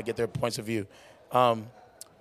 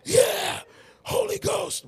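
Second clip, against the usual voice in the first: very high, loud hype shouts; turn-up guy; 5 dB louder, much slower than usual. Retold or imitated. Host imitates his old hype-singer self, high shouting. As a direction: whoop it up like a hype man. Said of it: "I was just a turn up guy".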